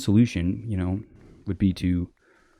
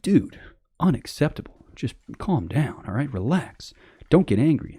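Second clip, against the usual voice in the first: higher-pitched mimicry of a reproach; mock scolding; 6 semitones higher, slower than usual. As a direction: imitate someone telling off a hothead. Imitates people scolding someone angry.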